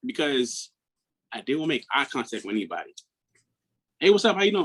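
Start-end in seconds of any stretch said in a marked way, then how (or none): 4.0-4.6 cheerful greeting. Retold or imitated.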